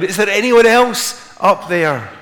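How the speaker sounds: high, loud, drawn-out shout upward; comic desperate holler, slow and high; calling for help. Retold or imitated. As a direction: yell up for a second opinion. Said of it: "the man turned around".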